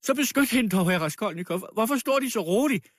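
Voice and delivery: high, frantic tirade; wild screaming voice. A narrator's reading. Dying widow begging the crowd to defend the girl, wildly. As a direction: wail and rail at everyone, desperate. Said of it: "skreg med vild stemme".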